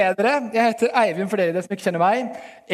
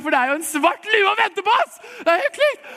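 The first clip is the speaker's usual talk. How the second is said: climbing higher and louder into a mock frenzy; hammed-up excitement; 12 semitones higher, 4 dB louder than usual. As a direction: sell a black hat like the jackpot. Mock hype rushing to the shop.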